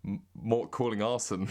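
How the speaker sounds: "Arson" with an ah in place of Orson; botched American attempt. Shown as a demonstration. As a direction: stumble on M-, then slip to "Arson". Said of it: "you end up saying".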